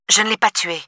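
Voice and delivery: une pointe d'agacement, plus aiguë et retenue; agacée mais contenue; légère exaspération. Acted. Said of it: "de l'exaspération dans sa voix". (soupçon d'exaspération)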